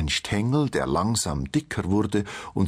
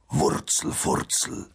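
slow, intense whisper; whispered spell. A narrator's reading. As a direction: whisper the magic word, drawing it out. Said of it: "sammelte alle seine Kräfte und flüsterte". (geflüsterter Zauberspruch)

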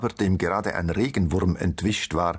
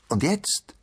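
higher, voiced call with rising end; called-out question; 10 semitones higher than usual. A narrator's reading. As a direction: call it out expectantly, pitch jumping up. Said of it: "rief das Nüsschen". (hoch gerufene Frage)

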